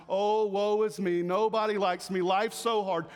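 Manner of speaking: lightly whiny woe-is-me; mock a pitiful complainer, lightly; mock self-pity. Preacher mimicking self-pitying believers, mild mock whine. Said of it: "we can become so pitiful in our minds".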